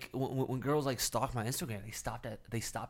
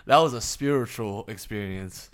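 laughing; 8 dB louder than usual. Real, not acted. After big laugh.

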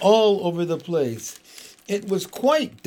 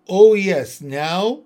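put-on loud, eager girlish joy; Lucy clapping as Aslan explains; excited cry; 3 semitones higher, 8 dB louder, slower than usual. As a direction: burst out with delight. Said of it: "jumping up and clapping her hands".

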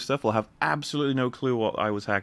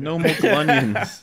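hammed-up villain; 7 semitones higher, 7 dB louder, much slower than usual. Mock Jeb villain line.

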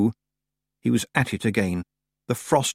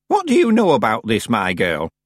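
put-on alarmed old witch; 4 dB louder than usual.

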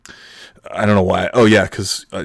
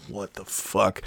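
softly imitated disbelief; awkward classmates' reaction; 8 dB quieter, slower than usual. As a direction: say it under your breath, appalled. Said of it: "looking at each other like".

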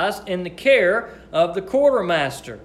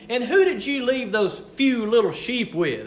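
lightly mocking big brother sneer; mocking jab; 3 semitones higher than usual. Older brother Eliab teasing David about his sheep, mild mockery. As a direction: needle him about his few little sheep. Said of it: "he took a jab at him".

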